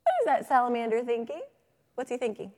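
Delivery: playfully exaggerated prompting; teacher's prompting question. Shown as a demonstration. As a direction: wonder aloud for young listeners. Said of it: "put my head right next to the salamander".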